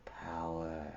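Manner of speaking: sinking from soft scheming to a breathy hush; sly fading whisper. A narrator's reading. Zaida tempting Bastian, trailing off into a whisper. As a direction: draw him in, voice falling to a whisper. Zaida offers her artifices.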